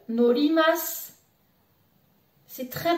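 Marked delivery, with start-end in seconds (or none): 0.1-1.1 norimasu said with the R as an L, nolimasu. Shown as a demonstration. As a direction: swap the R of norimasu for an L. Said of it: "le changer vers le L". (norimasu avec le R changé en L)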